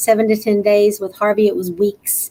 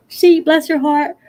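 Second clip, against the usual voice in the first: words stretched out mid-yawn, slow; yawning through the words; 6 semitones higher, 4 dB louder than usual. Real, not acted. Apologizing to viewers after a long night, said through a yawn. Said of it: "I'm sorry I'm yawning".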